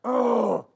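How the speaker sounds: short groan from the throat; frustrated guttural groan. Acted. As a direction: groan in disgust before giving an order. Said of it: "And then he went".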